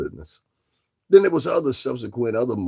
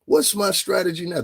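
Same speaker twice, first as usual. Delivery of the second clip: "what's my strategy now" repeated higher and more urgently; mock inner voice; 4 semitones higher than usual. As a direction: play a man scrambling for a plan. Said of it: "reconvene and say".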